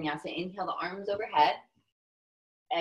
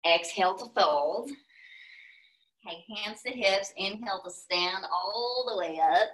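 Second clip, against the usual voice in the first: louder yoga cues in a Texas accent; 4 dB louder than usual. Shown as a demonstration. Teacher guiding the fold and rise, in Texas accent. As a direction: Texas twang on every cue. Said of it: "I'm gonna walk you through with my Texas accent".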